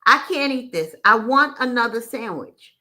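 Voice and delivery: frustrated customer pushing back. Retold or imitated. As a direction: push back on the waitress, mildly exasperated. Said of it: "Seriously hungry and frustrated".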